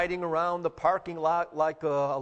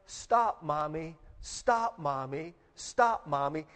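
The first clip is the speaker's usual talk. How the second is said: imitated crying out; slower than usual. Hurt girl begging Mommy to stop cleaning her knees, retold cry. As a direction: plead in repeated bursts, each falling away, imitating a child. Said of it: "she begins to cry".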